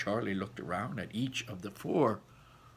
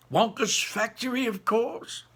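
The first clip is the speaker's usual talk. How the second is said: emphatic grandpa; 12 semitones higher, 5 dB louder than usual. A narrator's reading. Grandpa answers Charlie.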